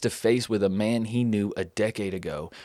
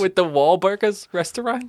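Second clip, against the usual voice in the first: put-on Boston accent; 8 semitones higher than usual. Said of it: "it makes you say it with a Boston accent".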